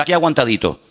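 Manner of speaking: a hint of a tired, defeated "Aquí aguantadito"; weary complaint. Preacher mimicking a believer's weary "Aquí aguantadito". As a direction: sigh it out like you're just getting by. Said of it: "no, aquí no se habla así".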